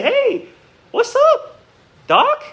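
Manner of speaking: a quick cartoon-rabbit impression; Bugs Bunny. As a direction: pop it out like a cheeky cartoon bunny. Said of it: "even Bugs Bunny is more real".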